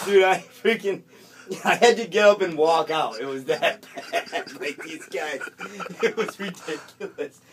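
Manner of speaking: high, loud laughter breaking through; can't keep it together telling it; laughing. Real, not acted. Comedian cracking up at his own story, laughing.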